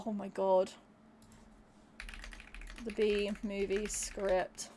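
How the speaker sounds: low, slow, dreading it. Real, not acted. Streamer reads out a dreaded request, low and slow. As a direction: let the title sink in slowly, dreading it.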